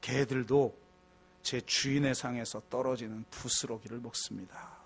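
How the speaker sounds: bow your head and murmur it; humble hush. Retold or imitated. Woman's humble reply quoted.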